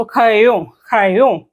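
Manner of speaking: ക്രയോൺ with a breathy h for the r; French crayon. Shown as a demonstration. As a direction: model ക്രയോൺ, r almost a ഹ്. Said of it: "ഒരു ഹ് സൗണ്ടിലേക്കാ വരുക". (ആറിന് പകരം ഹ് ശബ്ദം)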